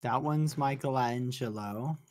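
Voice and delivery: Michelangelo said slowly as "mike-uh-LAN-zhuh-low"; odd pronunciation. Real, not acted. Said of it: "Why did you pronounce that so weird?".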